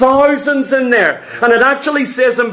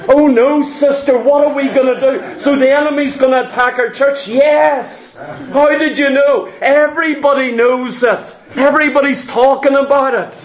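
gossiping church folk; 2 semitones higher than usual. Retold or imitated. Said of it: "they're sitting together and they're going".

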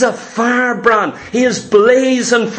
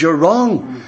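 voicing Jesus; 3 semitones lower than usual. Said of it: "Jesus says".

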